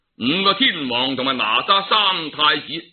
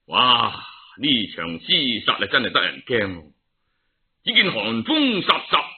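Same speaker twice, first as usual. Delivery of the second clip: gravelly dramatic storyteller; 3 semitones higher than usual. A narrator's reading. Dramatic Cantonese storytelling narration.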